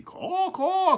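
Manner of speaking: very high loud caw falling away; answering crow caw. A narrator's reading. Distant crow answering Smokey's call, high falling caw. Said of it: "came back the call".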